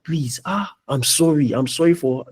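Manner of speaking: mock a humble, apologetic plea; pleading. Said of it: "they were pleading".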